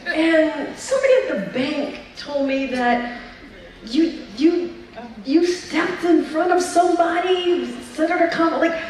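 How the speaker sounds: mock Haitian mom accent. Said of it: "I can't do her accent at all".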